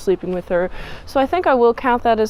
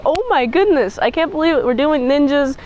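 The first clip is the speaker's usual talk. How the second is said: excited; 5 semitones higher than usual. Retold or imitated. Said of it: "I'm like".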